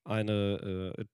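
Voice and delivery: hoarse smoker's voice; raspy, worn voice after a night out; smoker's rasp. Real, not acted.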